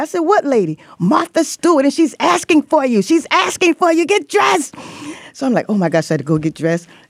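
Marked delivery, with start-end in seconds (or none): 1.0-4.7 put-on high-pitched Puerto Rican accent. You retell a mom telling you to get dressed for a visitor, in Diana Sanchez's Puerto Rican accent. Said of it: "Puerto Rican accent".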